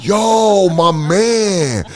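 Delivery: playful busboy imitation. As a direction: repeat the crude joke as the busser. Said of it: "And I'm dying".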